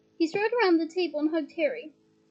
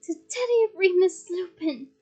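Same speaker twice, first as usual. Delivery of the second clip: proud toast; 3 semitones higher, 5 dB louder than usual. Acted. Raising a toast.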